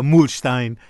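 "Mühlstein" said carefully, ending in "shtein"; "Mühlstein" with long first vowel and "sht"; attempted German pronunciation. Shown as a demonstration. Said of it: "I've come closer than I did".

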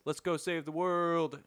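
lightly voiced hero line, slowed; a hint of a movie hero rallying; mock Will Smith line. Quoting the actor's trailer line, lightly heroic. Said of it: "Will Smith says".

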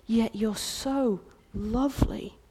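tender reassurance. Acted. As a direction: comfort her softly. King voiced tenderly again.

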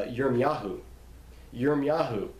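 Yirmiyahu said as "yeer-mee-YAH-hoo"; Hebrew pronunciation. Shown as a demonstration. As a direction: give Yirmiyahu its Hebrew sound, stress on "yahu". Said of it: "Jeremiah's name was".

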